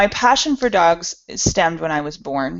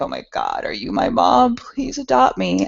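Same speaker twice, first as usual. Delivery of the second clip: pleading shelter dog; 6 semitones higher than usual. Retold or imitated. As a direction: beg like a dog wanting a home. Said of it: "they look at you like".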